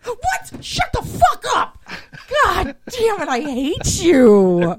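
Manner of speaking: high panicked shriek; screaming at a spider. Real, not acted. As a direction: freak out at a spider on you. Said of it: "I just totally freaked out".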